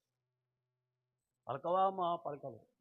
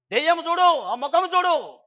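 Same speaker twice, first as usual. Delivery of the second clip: retold scolding; 8 semitones higher, 6 dB louder than usual. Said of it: "గట్టిగా ఇంకా తిడుతూ ఉంది".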